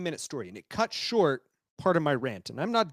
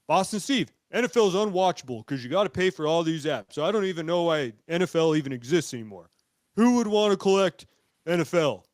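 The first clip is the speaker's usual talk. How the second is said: lightly put-on Boston accent; 3 dB louder than usual. Host imitates a friend griping about football, mock Boston accent. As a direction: complain with a hint of Boston accent. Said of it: "That's my Boston accent".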